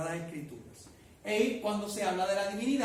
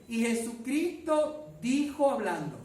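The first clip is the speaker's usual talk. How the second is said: mock literal translation; 3 semitones higher, 8 dB louder than usual. Shown as a demonstration. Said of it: "Cuando uno traduce bien, dice".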